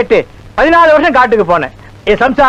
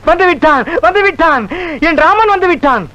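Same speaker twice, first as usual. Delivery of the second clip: excited cry; 5 semitones higher than usual. Acted. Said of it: "கத்தாதையா".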